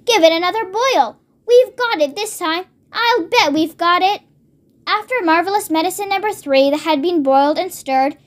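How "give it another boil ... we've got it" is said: lifted, mildly excited urging; eager excitement. Acted. Mister Cranky urging George to boil it, eager excitement. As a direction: sound sure of success, lightly acted. Excited orders continue after shout.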